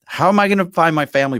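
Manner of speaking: loud, high-pitched plea; playfully distraught outburst; mock despair. Real, not acted. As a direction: wail comically in exaggerated dismay. Mock despair at spelling the name.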